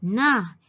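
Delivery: NAH called out loud; exclamation. Shown as a demonstration. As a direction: read "Nah" as a loud interjection. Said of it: "Mari kita baca". ("Nah" diseru dengan kuat)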